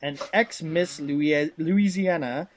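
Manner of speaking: animated, swinging manual narration in a put-on accent; hammy storytelling read. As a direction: sell it like a hokey Southern narrator. Reads game text in character voice.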